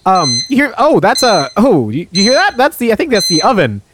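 high, startled, hearing an alarm. Acted. Acted skit, hearing alarm.

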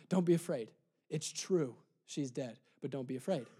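low, soft voice of comfort; tender reassurance. Acted. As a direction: break it gently, very quietly. Voices Jesus gently telling Jairus.

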